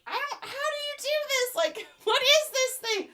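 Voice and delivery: confused bro. Retold or imitated. Twenty-year-old bro baffled by the tangled cord. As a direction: play a baffled young guy poking at it. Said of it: "t-shirt bro being like".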